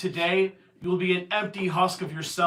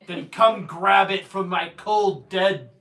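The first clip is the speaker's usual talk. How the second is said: menacing villain; 5 dB louder, slower than usual. Acted. GM voicing villain's defiance.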